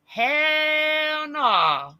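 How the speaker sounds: loud, high "hell no"; emphatic shout. Real, not acted. Telling the chat her caregiving job was hard, loud "hell no". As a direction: throw it out loud and high in disbelief. Insisting the job wasn't easy.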